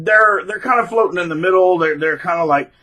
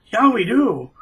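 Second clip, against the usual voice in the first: mock eager agreement; 7 semitones higher, much slower than usual. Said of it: "they're like".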